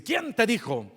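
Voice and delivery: a touch of annoyance in the question; half-angry officer. Retold or imitated. Officer confronting the pastor about the insult, mildly angry. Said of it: "el poli estaba medio enojado".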